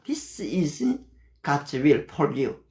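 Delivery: slow, careful English scripture; slow memorized Bible English; memorized verse recital. Shown as a demonstration. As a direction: say each word deliberately, recited from memory. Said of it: "제가 이렇게 영어를 할 수 있는 거는요".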